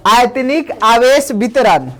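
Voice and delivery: slow, even dictation of the heading; dictating a heading. Shown as a demonstration. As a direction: give the title for students to copy. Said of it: "लिखिए". (शीर्षक धीरे-धीरे लिखवाना)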